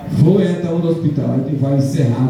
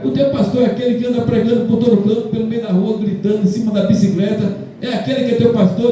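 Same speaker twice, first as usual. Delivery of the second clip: mocking gossip; 5 semitones higher than usual. People mocking his street-preaching pastor.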